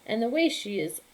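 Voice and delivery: high, loud, slow taunt; mocking children. Village children mocking her sweeping, high slow taunting. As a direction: drag it out in a childish jeer.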